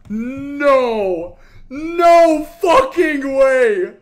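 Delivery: slow, loud, cracking shout; disbelieving shout. Real, not acted. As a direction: yell in stunned joy. Disbelief at the drop.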